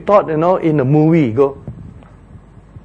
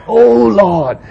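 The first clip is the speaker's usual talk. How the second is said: crying to God; 6 semitones higher, much slower than usual. Acted. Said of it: "he must be crying to God".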